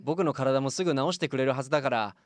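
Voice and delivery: childlike patient, lightly voiced; a lonely boy asking to chat.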